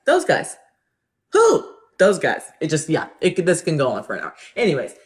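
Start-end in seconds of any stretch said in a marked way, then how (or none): 0.1-2.4 high-pitched question and answer; comic back-and-forth. Acted. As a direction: play both sides of a silly routine. Acting out Who's on First routine.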